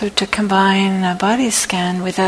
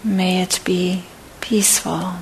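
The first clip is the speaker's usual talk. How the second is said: guided meditation; 6 dB quieter than usual. Acted. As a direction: guide them gently through each phrase, unhurried. Leads a loving-kindness body scan.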